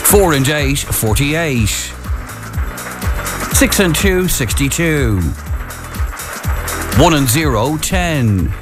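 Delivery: calling numbers, pausing between calls; bingo caller. Acted. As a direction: call each number like a bingo hall.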